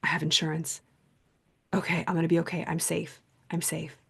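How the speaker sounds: soft, steady murmur repeating it to herself; calm self-reassurance. Retold or imitated. After the break-in, she soothes herself: quiet, calm repetition. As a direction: talk yourself down gently, almost under the breath. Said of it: "I just thought".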